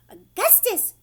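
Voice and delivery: loud high call of his name. A narrator's reading. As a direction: call across to her son. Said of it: "called out Missus Gloop".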